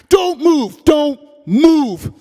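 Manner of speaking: armed officer screaming orders; police shout. Acted. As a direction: yell it like a cop in a raid.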